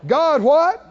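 loud prompting question; loud call to congregation. Real, not acted. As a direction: shout the question out to the room.

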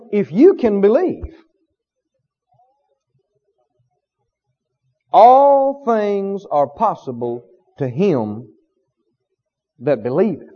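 slow, deliberate words of Jesus; slow solemn quote. Retold or imitated. Jesus answering the father, slow and solemn. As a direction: draw each word out slowly. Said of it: "Jesus said to him".

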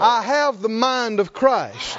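slow, firm declaration; out loud, like you mean it. Shown as a demonstration. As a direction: proclaim it slowly for the crowd to echo. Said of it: "say it like you mean it".

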